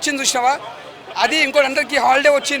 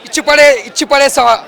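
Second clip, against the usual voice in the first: movie dialogue; 5 dB louder than usual. Retold or imitated. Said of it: "ఒకటే dialogue".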